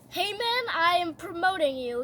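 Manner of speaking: high, regal king voice. Retold or imitated. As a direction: announce it like a proud king. King voiced in retold story.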